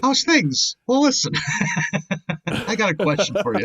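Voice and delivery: high, brash cabbie voice; a gruff old taxi driver talking. Retold or imitated. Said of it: "you just talk like an old taxi driver".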